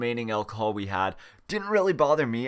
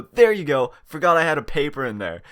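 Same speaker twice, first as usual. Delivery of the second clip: cheeky smartass; 5 dB louder than usual. Retold or imitated. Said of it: "slap it down on ... and go".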